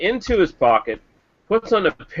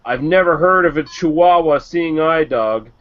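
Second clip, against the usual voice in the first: skeptical bartender; 2 semitones higher than usual. Acted. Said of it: "The bartender says".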